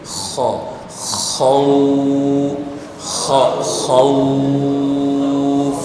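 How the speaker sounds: short খ, then খৌফ held long on one note; slow chant-like demonstration of খৌফ, vowel unbroken; sound kept flowing. Shown as a demonstration. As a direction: build up খ, খৌ-, খৌফ with a sustained, level glide. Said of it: "চালু থাকবে".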